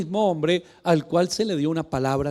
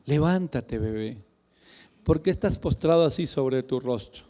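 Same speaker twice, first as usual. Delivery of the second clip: put-on softer, babying "Levántate, bebé"; mock coddling tone; 4 semitones lower, 3 dB quieter than usual. Preacher mocks God coddling Joshua, soft and babying. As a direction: coo it like soothing a baby, gently mocking. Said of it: "Yo no lo oigo así".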